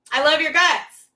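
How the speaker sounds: squealed with delight; to a friend she adores, high delighted squeal. Real, not acted. Delighted squeal. Gushing affection repeated, laughing.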